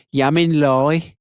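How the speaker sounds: slow, broad Black Country drawl; Black Country accent. Retold or imitated. Comic imitating the crowd in Lye, broad Black Country. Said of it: "they just went".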